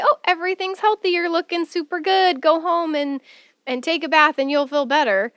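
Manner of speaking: mock the doctor's cheery dismissal; dismissive doctor. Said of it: "If they come back to you and say".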